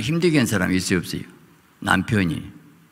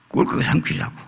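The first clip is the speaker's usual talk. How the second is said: 속삭임; 3 dB quieter than usual. Acted. 물고기가 삼키려 함.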